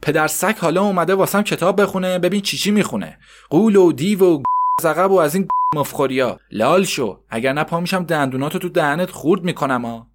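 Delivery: mother shouting at her son over his reading; angry yell. Acted. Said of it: "فریاد کشید".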